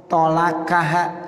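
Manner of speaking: "tolakaha" with light k; kaf substitution. Shown as a demonstration. Teacher showing the lay form, "tolakaha" with light kaf. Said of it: "pakai kaf".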